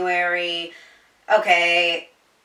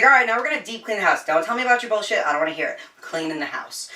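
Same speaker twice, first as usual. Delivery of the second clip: fast, a touch higher, bossy friend taking charge; bossy best friend; 4 semitones higher, faster than usual. Retold or imitated. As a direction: hurry her along like a pushy friend.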